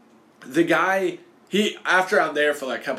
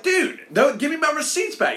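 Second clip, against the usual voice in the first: much higher, louder, panicky plea; protesting to the worker, high and louder; mock frantic protest; 13 semitones higher, 4 dB louder than usual. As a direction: squeal it in disbelief. Pleading with the worker.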